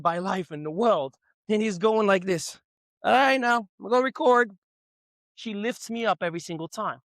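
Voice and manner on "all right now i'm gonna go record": pumped up. Retold or imitated. Retelling himself pumped up.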